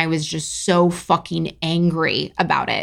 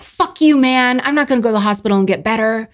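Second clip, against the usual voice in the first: mock defiance; 4 semitones higher, faster than usual. Injured person refusing the hospital, acted defiance. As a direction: play a hammed-up stubborn protest.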